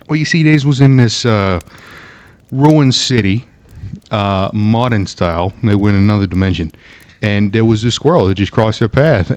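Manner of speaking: put-on New York accent; storytelling in a mock New York accent; New Yorker accent. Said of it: "start explaining it as a New Yorker".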